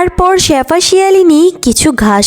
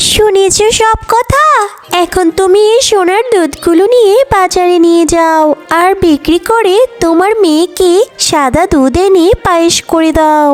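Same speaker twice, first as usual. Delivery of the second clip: raised-pitch cow character giving instructions; kindly cow; 5 semitones higher than usual. Acted. Cow sending fox to market for her child, kindly. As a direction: start high, advise the fox helpfully.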